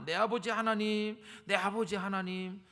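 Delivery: loud, drawn-out calling of Father God; slow, loud, longing cry. Acted. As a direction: call Him like a child calling its father. Repeated crying out to God.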